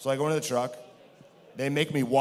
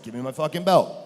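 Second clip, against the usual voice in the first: loud demand; 3 semitones higher, 6 dB louder than usual. Retold or imitated. Demanding belt backstage, on camera.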